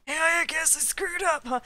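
a rough attempt at a Canadian accent. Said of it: "that's supposed to be Canadian".

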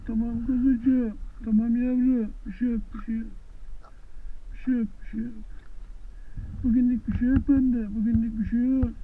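gently singsong calming talk; soothing coo. Real, not acted. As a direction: coo comfort to a little animal. Cooing reassurance to an animal.

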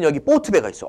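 ordinary talk

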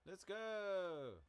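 high, loud yell to the horse; loud shout. Real, not acted. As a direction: shout him into a gallop.

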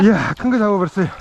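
excited shout. Real, not acted. Announcing big catch loudly.

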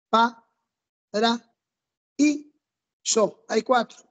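Pa, ra, y, so said as separate beats with pauses; syllable by syllable. Shown as a demonstration. Teacher counting syllables aloud for the class, one by one. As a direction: tap out each syllable slowly. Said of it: "mayor cantidad de sílabas".

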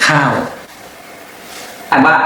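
ordinary talk, nothing marked

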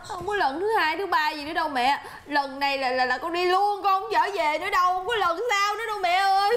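tearful protest to a mother; crying refusal to go back. Acted. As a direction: plead through tears, ending in a sob. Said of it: "Thôi con đừng có khóc".

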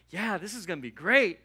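fired-up pulpit exclamation; excited preaching. Retold or imitated. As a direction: preach it with mounting joy. Excited preaching of first joy.

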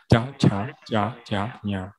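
slowed 加加加加呀, each syllable apart; slow syllable demo. Shown as a demonstration. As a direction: model 加加加加呀 slowly for learners. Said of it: "软耳的地方发音".

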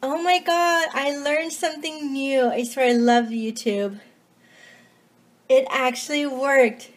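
breathless and excited; out of breath. Real, not acted. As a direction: talk while still catching breath. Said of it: "I'm out of breath right now".

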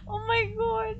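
frightened. Real, not acted. Shocked fright.

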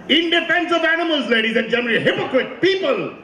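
high, declaiming address to the crowd; mock-indignant speech, pitched high; mock rallying cry.

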